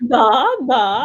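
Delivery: a hint of a Russian accent, da da; short Russian accent bit; mock Russian. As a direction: tease with a playful Russian accent. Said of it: "Cannot wait to hear this accent".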